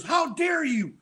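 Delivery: high, scandalized how dare you; lightly voiced shocked wife; mock outraged wife. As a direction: imitate the wife's pretend outrage. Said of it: "she goes".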